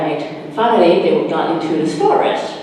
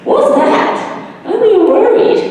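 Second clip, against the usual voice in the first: much higher, louder scared little voice; 5 dB louder than usual. Acted. Beanie frightened by a noise in the dark forest. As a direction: squeak out the worry. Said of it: "Beanie's still scared".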